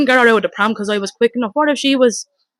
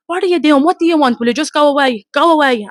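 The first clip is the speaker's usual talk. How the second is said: high, loud pleading to go away; retold frantic shouting; 5 semitones higher, 4 dB louder than usual. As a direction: shout him off, half panicked. Begging the man to leave.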